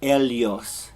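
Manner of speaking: "ellos" with the LL as an LY sound, "elyos"; Spain pronunciation. Shown as a demonstration. Teacher showing the Castilian sound. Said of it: "if you're in, in Spain, it would be".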